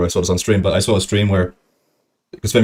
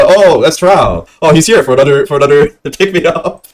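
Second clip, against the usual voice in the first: hammed-up neighbour spotting Trao; mock neighbour voice; 5 semitones higher, 4 dB louder than usual. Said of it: "people will be like".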